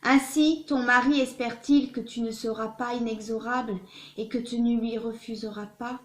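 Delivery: declaimed literary reading, steady and measured; love letter reading. Acted. Reader voicing Victor Hugo's letter to Adèle Fouché, declaimed love letter reading. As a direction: read it aloud as an ardent written declaration.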